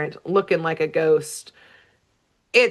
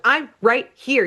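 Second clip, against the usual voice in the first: higher, mild retold yell; mock yelling; 6 semitones higher than usual. Ignored duck finally snaps at his family, mock yelling. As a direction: snap in mock exasperation, not full volume. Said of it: "like, yelling at them".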